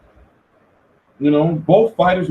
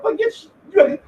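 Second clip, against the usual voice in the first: retorting; 8 semitones higher than usual. Retold or imitated. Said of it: "they be like".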